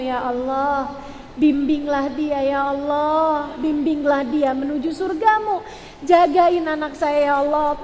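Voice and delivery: lingering, pleading supplication; demonstrating an imploring parent's prayer; model prayer. Shown as a demonstration. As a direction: draw out the appeals to God. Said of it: "di saat marah kamu bilang".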